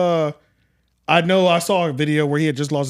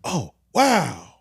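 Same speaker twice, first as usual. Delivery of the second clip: uninterested; 3 semitones higher, much slower than usual. Retold or imitated. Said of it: "you could tell he really cared".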